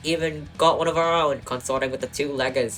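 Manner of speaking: lightly put-on Aussie accent; bad Australian accent. Dog Barker sizing up his rivals, bad Australian accent. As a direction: have a shaky go at an Australian accent. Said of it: "I don't know how to do an Australian accent".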